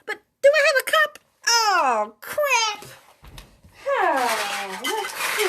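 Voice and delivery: quick, high, laughing question. Real, not acted. Reader laughs looking for a teacup. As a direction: giggle while hunting for a cup.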